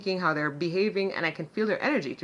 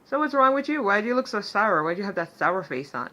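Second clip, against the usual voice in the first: cheerful teasing; 2 semitones higher than usual. Retold or imitated. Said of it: "but I was cheerful".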